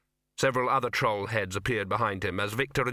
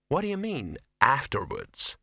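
taken aback; 2 semitones higher than usual. Acted. Ginger challenged by Victor's reply.

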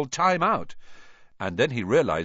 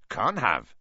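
voice shaking; 3 semitones lower than usual. Acted. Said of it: "his voice shaking".

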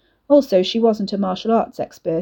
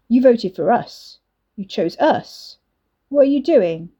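hurt; 3 semitones higher, 4 dB louder than usual. A narrator's reading. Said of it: "Liam sounded hurt".

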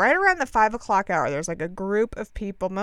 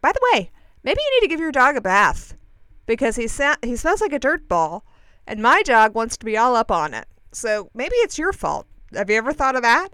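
retold snippy comeback; 3 semitones higher, 6 dB louder than usual. Acts out snapping back at woman.

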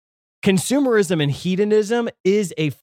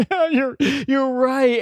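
higher, slow, mock-tearful admission; imitating a weeping man; 11 semitones higher, slower than usual. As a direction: voice a stranger breaking down in a bar, slowly. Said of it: "starts to weep".

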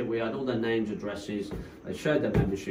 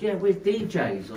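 Jason; 7 semitones higher, slower than usual. Retold or imitated. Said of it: "this little Cockney geezer".

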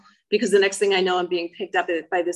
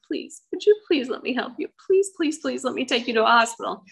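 higher-pitched imitated tearful plea; tearful pleading; 5 semitones higher than usual. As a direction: beg earnestly to be allowed to help. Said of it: "he was crying. And he said".

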